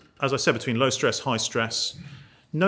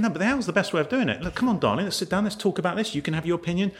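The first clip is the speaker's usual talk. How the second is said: coaxing owl; 4 semitones higher, faster than usual. Retold or imitated. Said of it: "and I'm thinking".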